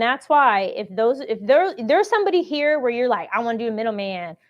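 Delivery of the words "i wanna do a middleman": a lightly voiced fast-talking middleman; quick, breezy hint of a middleman hustler. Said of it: "that's my middleman voice".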